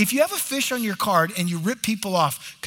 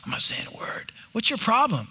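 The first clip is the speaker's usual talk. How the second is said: whispered quarrel; 3 semitones higher than usual. Retold or imitated. Couple's silent treatment acted.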